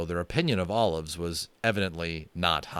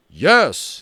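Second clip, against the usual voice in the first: loud, high sudden yes; cried out; 7 semitones higher, 10 dB louder than usual. A narrator's reading. Little Bear excitedly crying out yes. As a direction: leap on the idea. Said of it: "he cried immediately".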